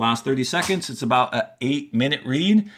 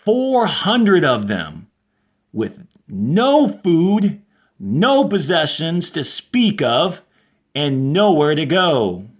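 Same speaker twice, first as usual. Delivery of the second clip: slow, expressive read-aloud for the class; story reading; slower than usual. A narrator's reading. Teacher reads a science fiction excerpt to her class, expressive storytelling.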